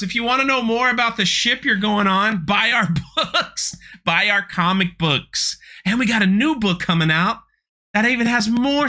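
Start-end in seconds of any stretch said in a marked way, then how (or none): 0.0-7.4 higher, hammed-up pitch, slowing at books; mock sales pitch. Vlogger mocking Disney pushing books, higher hammed-up pitch. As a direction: parody the upsell.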